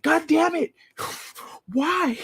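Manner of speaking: high, laughing, crying out; laughing despair. Retold or imitated. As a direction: wail it high through laughter. Mouse escapes again.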